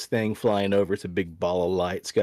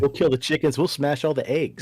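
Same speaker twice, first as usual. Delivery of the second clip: higher, hammed-up thug voice; mock threat; 5 semitones higher than usual. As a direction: play the goon threatening the farmer, higher. Joins the mock government threat.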